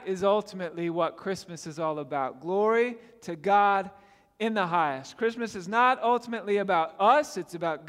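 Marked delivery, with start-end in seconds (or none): 2.4-5.2 weighty, spaced-out "Glory to God", falling on "highest"; deliberate emphasis. Real, not acted. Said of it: "when I say it like that".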